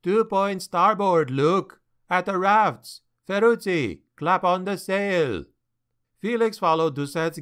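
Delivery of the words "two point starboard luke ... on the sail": shouting orders. Acted. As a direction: bark commands across the deck. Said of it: "shouting to the pilot".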